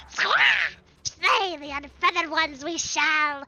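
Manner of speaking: bird creature voice. Acted. Voicing bird-beast dialogue.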